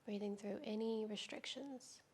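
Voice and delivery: calm, unhurried yoga teacher with long pauses; guided yoga meditation. Real, not acted. Teacher easing students into restorative yoga, calm guided-meditation delivery. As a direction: guide them gently through breath and stretch, leaving space between phrases.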